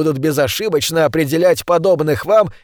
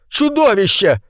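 shouting; 6 semitones higher than usual. A narrator's reading. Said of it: "завопил лектор".

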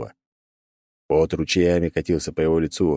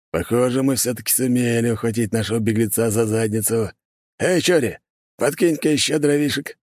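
high, gleeful call to a comrade; smug brute calling out; gloating hunter; 5 semitones higher than usual. Acted.

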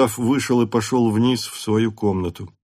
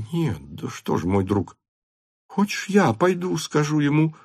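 smiling mother; 5 semitones higher, 3 dB quieter than usual. A narrator's reading. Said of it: "улыбаясь".

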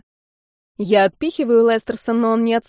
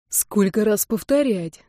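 ordinary delivery

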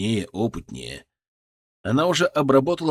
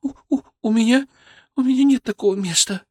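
sobbing; 11 semitones higher, 4 dB louder than usual. Acted. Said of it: "Девушка всхлипнула".

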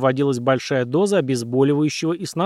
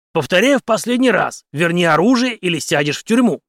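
loud, higher furious growl; growled in the face; 4 semitones higher, 5 dB louder than usual. A narrator's reading. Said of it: "прорычал в лицо". (Генри рычит в лицо врачу)

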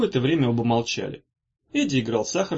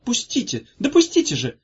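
pushing through; 10 semitones higher, 3 dB louder than usual. A narrator's reading. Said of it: "Повторяя".

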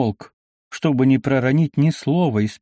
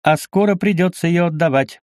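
exclaiming; 6 semitones higher than usual. A narrator's reading. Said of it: "воскликнул Збышка".

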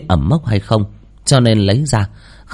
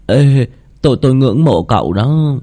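high, nervous stammer; caught-out nervous student; flustered excuse; 4 semitones higher, 3 dB louder than usual. Acted. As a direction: blurt an awkward compliment, pitched high. Caught staring, makes nervous excuse.

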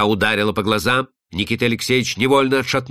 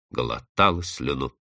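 plain reading voice

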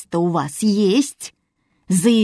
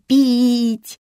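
put-on child's plea; 4 semitones higher than usual. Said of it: "запрыгала Юля".

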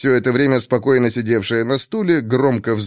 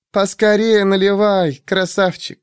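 high, lightly teasing woman; 8 semitones higher than usual. Acted. Shurk calls out.

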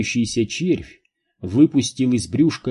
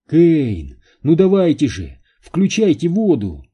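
raised, higher-pitched urging; urgent cry; 5 semitones higher, 4 dB louder than usual. A narrator's reading. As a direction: call out for action, loud and insistent. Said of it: "крикнула Нелл". (настойчивый крик)

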